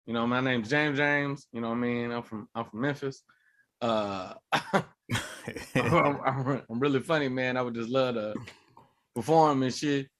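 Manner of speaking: low, soft, halting self-introduction; acted timid mumble with false starts; meek newcomer. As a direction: play a nervous comic, hushed and hesitant. Acts timid newcomer introducing himself.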